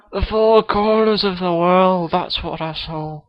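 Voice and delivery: a kid's hammed-up Scottish accent; Billy Connolly impression. Guest Billy Connolly greets the podcast host, mock Scottish accent. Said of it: "Billy Connolly is on the show".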